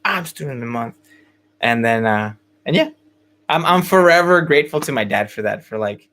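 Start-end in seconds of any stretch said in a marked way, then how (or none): 0.0-1.0 whispered gloating reply; smug whisper. Retold or imitated. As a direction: whisper it back with quiet pride. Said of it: "And I was like".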